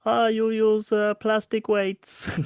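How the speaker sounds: hammed-up jeering gym lad; mock accusing lad. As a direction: send up a smug lad.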